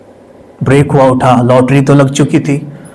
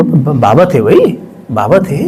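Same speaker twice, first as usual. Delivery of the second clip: slow, easy, matter-of-fact; relaxed, casual reply; very calm; 2 semitones lower, slower than usual. Retold or imitated. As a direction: say it like it's nothing special. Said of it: "उसने बड़े आराम से बोला".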